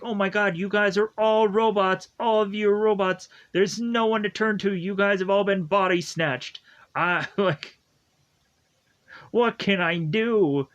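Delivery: a hammed-up panic about the robots; freaking out. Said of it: "Justin that just kinda freaks out".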